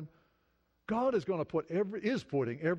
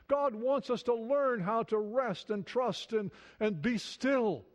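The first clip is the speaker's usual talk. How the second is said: slow emphatic; 6 semitones higher, slower than usual. Acted. Slowing to preach stillness.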